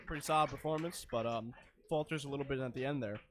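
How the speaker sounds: talking through a mouthful of wings; eating while talking; mouth full. Real, not acted. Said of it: "don't speak with your mouth full".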